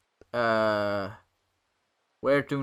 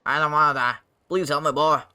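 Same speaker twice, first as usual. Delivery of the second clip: acted pleading; 3 semitones higher, 7 dB louder, faster than usual. Voices Bacchus begging for life.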